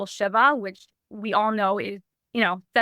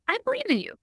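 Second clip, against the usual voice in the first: a high, gentle imitation of dad; quiet father; 13 semitones higher, faster than usual. Father quietly reassuring his daughter, lightly imitated. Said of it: "just a quiet conversation".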